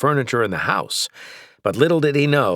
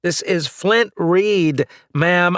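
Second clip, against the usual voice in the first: calling out; 10 semitones higher than usual. A narrator's reading. Calling through collar.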